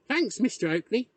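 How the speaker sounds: put-on high, eager boy's thanks; enthusiastic. A narrator's reading. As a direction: thank him brightly, pitched well up. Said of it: "he said enthusiastically".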